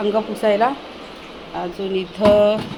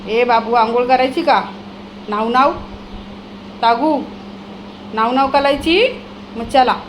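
put-on coaxing sing-song baby talk, louder; baby talk to dog; 3 dB louder than usual. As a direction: coax the dog like a toddler. (कुत्र्याला आंघोळीसाठी लाडिक बोलणे, मोठ्याने)

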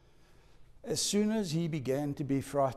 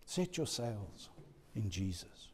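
whispered close; 7 semitones lower, 14 dB quieter than usual. Real, not acted. Repeated, sinking to a whisper.

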